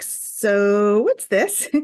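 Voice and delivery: long drawn-out, wondering "so"; puzzled query. Retold or imitated. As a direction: stretch it out, acting puzzled. Retells puzzled question to friend.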